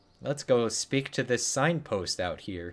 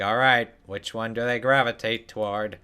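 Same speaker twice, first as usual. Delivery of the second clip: trog parent voice. Retold or imitated. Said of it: "Trog parents sound like that".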